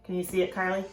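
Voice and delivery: soft unvoiced whisper; hushed whisper aside. Real, not acted. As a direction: whisper it like a secret. Whispering by the mailbox.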